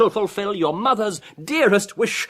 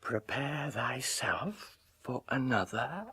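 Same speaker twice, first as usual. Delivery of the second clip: hammed-up tragic exit; 4 semitones higher, much slower than usual. Foma's grand theatrical exit.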